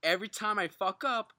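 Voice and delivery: slow, loud, each word of "Every time I fuck up" separate; over-careful, emphatic delivery; careful articulation. Real, not acted. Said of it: "try and articulate as best".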